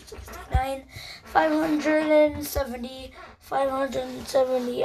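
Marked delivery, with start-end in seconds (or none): 1.2-3.1 voice crack. Real, not acted. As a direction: voice cracking upward. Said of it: "that was a voice crack".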